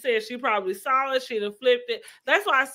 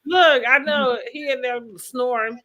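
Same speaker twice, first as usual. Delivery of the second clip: laughing; 3 semitones higher than usual. Real, not acted. Laughing about snoring.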